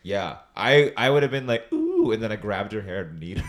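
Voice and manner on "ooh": mock flirty ooh. Mimicking before fighting.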